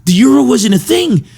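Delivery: high, loud teacher voice, fed up; exasperated teacher. Retold or imitated. Teacher correcting pranking students, high and exasperated. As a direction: explain it through gritted teeth like a tired teacher. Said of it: "he would always be like".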